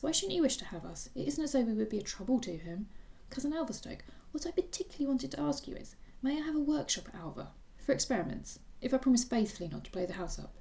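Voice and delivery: high, pleading schoolboy voice; young Felix eagerly pleading with his cousin; eager young boy. Acted. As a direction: beg like an excited boy wanting a workshop.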